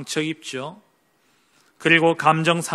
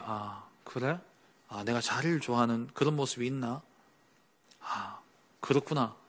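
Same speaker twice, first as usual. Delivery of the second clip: soft reflective acceptance; 3 semitones lower, 8 dB quieter than usual. Retold or imitated. Humbly accepting a rebuke, reflecting.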